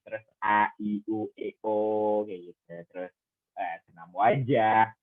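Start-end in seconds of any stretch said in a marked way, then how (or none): 0.4-2.3 A, I, U, E, O voiced as separate vowels; vowel drill. Shown as a demonstration. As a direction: sound out A, I, U, E, O one by one. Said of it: "latihannya seperti apa?".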